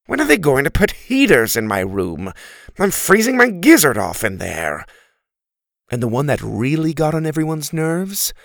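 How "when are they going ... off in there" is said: louder, whiny turkey grumble; complaining turkey. Acted. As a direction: moan about the cold.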